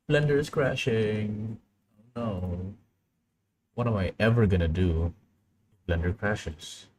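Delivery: drawn-out, hammed-up despair; playful melodrama, words stretched out; mock lament. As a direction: wail it slowly in mock woe. Mock lament over software crash.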